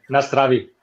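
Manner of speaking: Nazdraví said as nas-dra-vee, stress first; Nazdraví spoken clearly in Czech; Czech pronunciation. Shown as a demonstration. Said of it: "can you say that one, Sam?".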